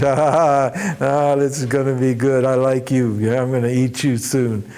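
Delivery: a hint of a greedy genie, savouring; lightly voiced monster licking its lips; hungry genie. Genie drooling, licking his lips.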